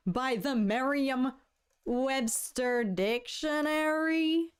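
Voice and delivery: incredulous, dragging out each word; stunned disbelief. Real, not acted. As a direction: stretch it out in rising disbelief. Slow disbelief reading the news.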